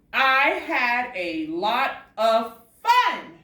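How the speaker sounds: excited demo. Shown as a demonstration. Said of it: "I'm saying it with excitement".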